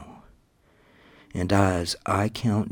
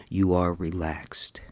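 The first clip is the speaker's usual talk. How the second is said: whisper. Acted. Whispered hypnosis cue.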